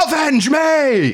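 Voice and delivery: high, slow overblown dying cry; overacted death scene. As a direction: go big, stretch every syllable. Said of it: "he knows he's gonna go big".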